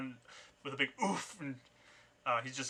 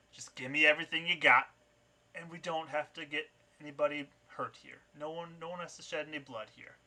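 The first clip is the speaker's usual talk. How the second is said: thug threatening; 3 semitones higher than usual. Acted. GM voices knife-wielding thug.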